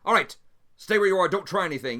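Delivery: loud, barked order at gunpoint; commanding shout. Acted. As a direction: bark it like a guard holding him at weapon point. Guards draw weapons on suspect.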